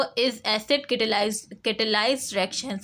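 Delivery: very slow, spelling out the term; slow dictation. Shown as a demonstration. Teacher to class, dictating the term, very slowly. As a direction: draw each word out for students to note. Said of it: "teacher dictating the term".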